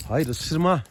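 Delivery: high, loud warning to a biting horse; sharp no. Real, not acted. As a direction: stop the horse mid-bite. Horse tries to bite. (yüksek sesle sert uyarı)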